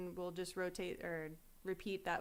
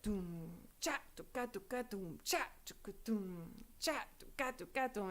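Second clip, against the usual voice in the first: drum-set beat vocalized; 5 dB quieter than usual. Shown as a demonstration. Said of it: "that's like the first thing you learn on drum set".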